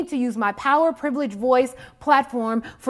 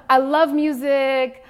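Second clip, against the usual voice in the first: slow emphatic declaration; 3 semitones higher, 5 dB louder, slower than usual. Shown as a demonstration. Speaker to students, restating her love of music slowly.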